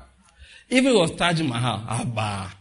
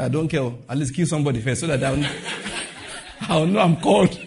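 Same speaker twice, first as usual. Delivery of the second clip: laughing Jonah. Retold or imitated. Jonah pleading for proof.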